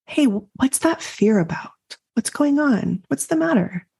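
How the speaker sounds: tender questions to her own body; gentle asking. Retold or imitated. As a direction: coax the fear out gently.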